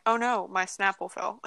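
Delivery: flat deadpan voice; monotone. Retold or imitated. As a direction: say it with no feeling at all. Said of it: "like, monotone".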